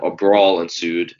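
"brawl" drawn out slowly, as if in quotation marks; slow, quote-marked "brawl"; air quotes on BRAWL. Real, not acted. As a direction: stretch "brawl" to show it is only so-called. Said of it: "I have air quotations up".

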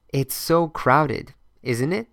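slow, clear teacher model with stress on so; slow model phrase. Shown as a demonstration. Teacher modelling a phrase for learners, slow and clear. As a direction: say it slowly for learners to copy. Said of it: "Let's practice".

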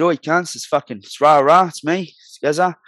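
barking his name at the cops; retold phone yell. Calling the police on himself, a loud retold yell.

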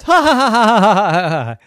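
high and loud ha ha ha; mocking horse laugh. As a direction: laugh at the fallen knight. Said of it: "And the horse laughed".

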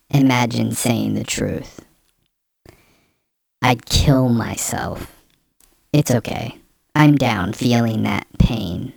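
lightly voiced jilted boyfriend; drawn-out dramatic reading, a hint of wounded ex; in character. Vlogger reading a man's breakup post, lightly in character. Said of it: "So I'm in character now".

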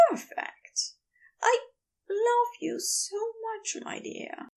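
tender, hushed whisper; soft whisper. A narrator's reading. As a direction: whisper it close to a lover's skin. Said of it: "softly as he whispered".

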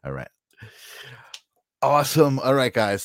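ordinary talk, nothing marked

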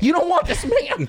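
high-pitched comic plea through laughter; mock pleading. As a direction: plead in a squeaky mock panic. Pleading with an imagined robber.

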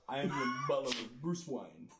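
slow, badly faked British butler; Michael Caine. Actor hinting he is Bruce Wayne's butler, slow British impression. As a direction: attempt a stately British butler, drawn out. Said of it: "Michael Caine?".

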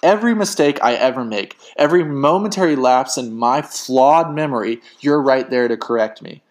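heated, emphatic reproach; accusing. Acted. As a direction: throw it as a pointed accusation. Heated quarrel, accusing partner.

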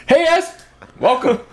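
high, bright-pitched show host greeting; mock intro voice. Podcast host opening the show in a high mock voice. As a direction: pitch way up to welcome everyone.

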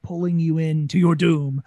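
lilting barker pitch, luring them in; lightly sung-out showman's lure; lyrical siren. Shown as a demonstration. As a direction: draw the listener in lyrically. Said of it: "you wanna kind of lyrically, I'm a siren".

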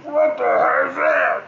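startled shout. Real, not acted. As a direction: yell out at a strange noise. Startled man yelling at noise.

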